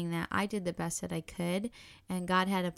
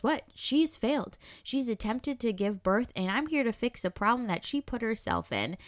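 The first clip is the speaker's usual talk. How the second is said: the doctor's retort, pitched higher and louder; tossing it off like it's obvious; mock dismissive doctor; 4 semitones higher, 3 dB louder than usual. Doctor brushing off the doula and Lucas, mock dismissive.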